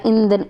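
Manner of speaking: "ईंधन" relaxed, vowel through the mouth only; oral vowel. Shown as a demonstration. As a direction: say "ईंधन" easily, no nasal sound. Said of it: "ईंधन तो आराम से बोला गया". ("ईंधन" आराम से, मुँह से)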